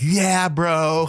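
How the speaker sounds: put-on California surfer accent. Retelling how foreigners answer when asked for an american accent; california surfer accent. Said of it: "everyone sound like California surfers".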